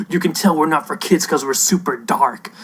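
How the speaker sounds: hushed, dramatic mock-serious whisper; mock edgy whisper. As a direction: whisper it like a brooding edgy show. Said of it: "It's like".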